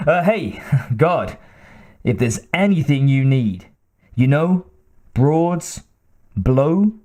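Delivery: nervous stammering clerk; stuttering. Acted. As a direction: trip over the words eagerly. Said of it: "he stuttered".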